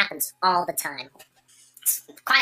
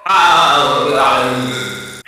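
weird noise; 6 semitones lower, 9 dB louder than usual. Pretend. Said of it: "making weird noises now".

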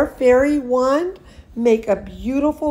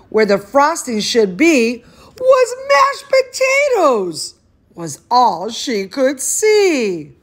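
lively storybook reading voice; animated picture-book narration; reading to children; 2 semitones higher, 3 dB louder than usual. Acted. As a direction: read it like bedtime story time for a toddler. Reads picture book aloud.

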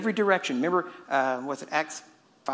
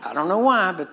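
louder, punched mock complaint on why; mock exasperated; 2 semitones higher, 6 dB louder than usual. Preacher jokes to the church he's unloved, mock exasperated. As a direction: playfully protest I don't know why. Joking he isn't loved.

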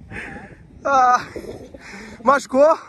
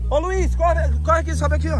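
calling out; 7 semitones higher than usual. Real, not acted. Calling Luiz to run.

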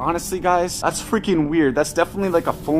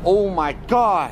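real fright, pitched up and shocked; really scared; 6 semitones higher than usual. Real, not acted. Vlogger finds a noose and tells viewers, really scared. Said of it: "now I'm really, really fucking scared".

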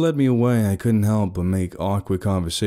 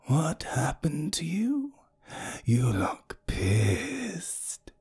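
giggling tease; 7 semitones higher, 6 dB quieter, much slower than usual. A narrator's reading. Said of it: "she asked with a small giggle".

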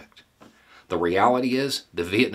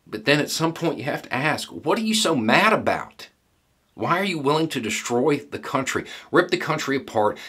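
exasperated questioning; 7 semitones higher, 3 dB louder than usual. Real, not acted. Veteran confronting people eager for war, exasperated and high. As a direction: pitch jumps high, louder, incredulous.

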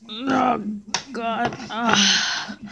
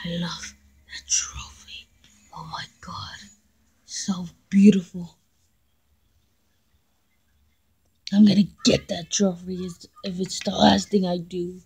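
hushed, softer scheming; obsessive whisper; 3 semitones lower, 9 dB quieter than usual. Acted. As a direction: whisper to yourself.

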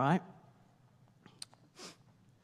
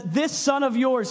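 dismissive; 6 semitones higher, 4 dB louder, slower than usual. Retold or imitated. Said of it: "he calls him".

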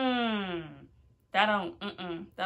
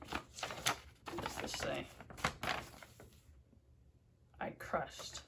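whispered reading; 5 semitones lower, 11 dB quieter, slower than usual. Real, not acted. Reading the package quietly.

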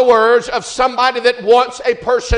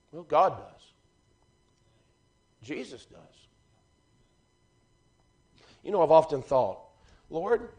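much softer and lower, close and earnest; hushed preaching; 5 semitones lower, 11 dB quieter than usual. Acted. Preacher confiding to the church, soft and low. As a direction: drop to a near hush, as if confiding. Quiet intimate stretch of sermon.

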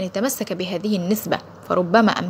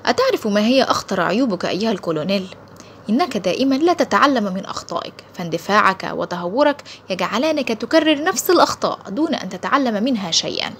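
coolly. Acted. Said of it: "أجاب ممدوح ببرود".

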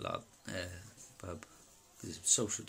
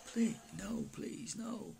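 much higher pleading, fading to a breath; begging; 12 semitones higher, much slower than usual. Retold or imitated. The demon begging the teller for mercy, high imitated pleading. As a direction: plead like a scared creature.

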